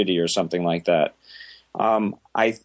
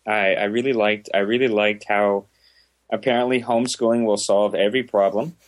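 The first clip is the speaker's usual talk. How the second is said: dry mock praise; sarcastic. Real, not acted. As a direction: fake admiration, deadpan. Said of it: "The sarcastic agreeing with it".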